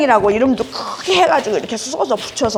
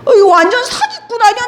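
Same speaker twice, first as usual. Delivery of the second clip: higher, louder "this is a total fraud"; accusing shout; 7 semitones higher, 4 dB louder than usual. Retold or imitated. Drunk patient yelling that she is a fraud, loud and high. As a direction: yell it while grabbing her collar. Patient grabbing her collar.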